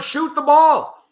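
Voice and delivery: slow, high, stretched-out plea; begging the players to shoot; drawn-out plea. Real, not acted. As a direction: drag every word out. Pleading with team on TV.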